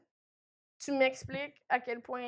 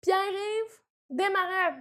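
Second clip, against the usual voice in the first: name read out slow; slow announcing; 5 semitones higher, 5 dB louder, much slower than usual. Shown as a demonstration. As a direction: present the full name slowly. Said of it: "comme si on faisait". (présenter le nom complet lentement, avec emphase)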